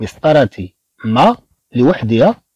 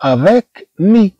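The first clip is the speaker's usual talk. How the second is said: avec mi drawn out very slowly, higher; slow, careful teacher pronunciation; slow teaching demo; 6 semitones higher, much slower than usual. Shown as a demonstration. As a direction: spell the sounds out slowly for the class. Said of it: "هنا عندنا كلمات".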